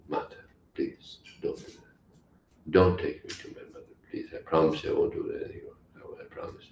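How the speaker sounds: hushed, pleading mock fear; softly beg, pretending to be scared; feigned fear. Child Krishna begs the gopi not to tell mother, feigning fear. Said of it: "he feigned fear".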